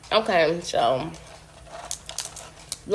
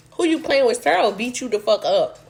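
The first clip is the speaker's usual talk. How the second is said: retold threat; 4 semitones higher, 3 dB louder than usual.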